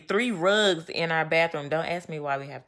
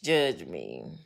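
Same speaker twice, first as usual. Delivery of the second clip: mock plea; 4 dB quieter, much slower than usual. Real, not acted. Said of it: "please don't judge me right now".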